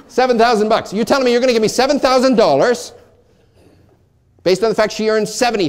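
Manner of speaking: high, loud mock disbelief; acted amazement. Agent told of a seven thousand dollar payout, amazed. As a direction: play the agent astonished by the money.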